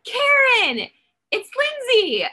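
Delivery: high, loud call of her name. Retold or imitated. Calling to her from the car.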